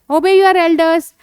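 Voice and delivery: slow, clear, drawn-out English model phrase; slow teaching model. Shown as a demonstration. Teacher slowly modelling phrase for a child. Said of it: "तो अपने से बड़े तो एल्डर्स".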